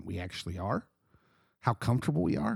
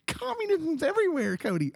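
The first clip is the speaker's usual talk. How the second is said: sarcastic. Real, not acted. Sarcastic mock alarm.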